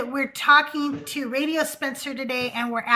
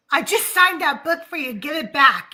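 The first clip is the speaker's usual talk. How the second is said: mock angry Heston; 3 semitones higher, 5 dB louder than usual. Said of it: "What if he was just like".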